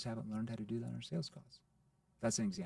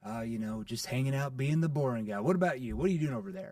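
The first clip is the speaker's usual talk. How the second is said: playful; 5 dB louder than usual. Shown as a demonstration. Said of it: "But I have to be playful".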